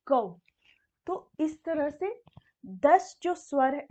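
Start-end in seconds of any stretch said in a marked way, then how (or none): 0.1-0.4 'कौ' on its own, with an au vowel; demonstrated syllable. Shown as a demonstration. Teacher modelling the sound for learners, 'कौ' set apart. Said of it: "तो इसका उच्चारण होगा".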